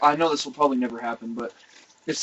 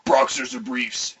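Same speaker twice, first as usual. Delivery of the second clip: slow, lower mock question; lightly voiced deadpan jailer; jail matron; 4 semitones lower, slower than usual. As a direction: ask it slowly, drawn out. Acted jail lady's question.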